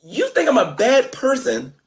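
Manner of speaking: high and drawn out, each word weighed; slow it down and lean in; slow pointed accusation. Real, not acted. Confronting Shanny on her logic, slow and pointed.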